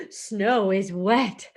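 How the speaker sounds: slow even readout of "wet"; computer voice. Acted. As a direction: say "Snow is wet" like a machine. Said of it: "The computer tells Kitty".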